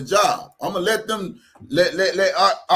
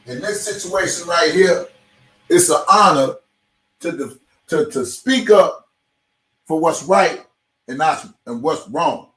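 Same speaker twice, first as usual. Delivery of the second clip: heated rant; 7 dB louder than usual. Real, not acted. Ranting at absent parent.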